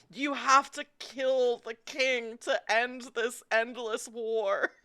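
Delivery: grandly earnest talking horse; horse's solemn plea. Acted. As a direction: plead gravely as a war horse, drawing it out. Game master voices the horse.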